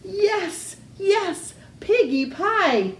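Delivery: high, greedy witch voice; gleeful witch. Acted. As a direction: cackle out her craving, lips smacking. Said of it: "Gritch said, smacking her lips".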